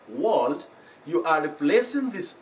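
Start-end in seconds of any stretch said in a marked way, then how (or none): 0.1-0.7 "world" with a rounded O, like "wawld"; mistaken O vowel. Shown as a demonstration. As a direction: say "world" wrongly as "wold". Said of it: "when you pronounce it as world".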